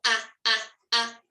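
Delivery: "ah, ah, ah" as short clipped bounces; bouncy sounds. Shown as a demonstration. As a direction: bounce each "ah" quick and separate. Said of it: "A bouncy sound is a sound that cannot be stretched".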